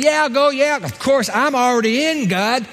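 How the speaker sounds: high, smug mock of the self-righteous. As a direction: sneer it like a smug insider. Mocking self-assured religious people.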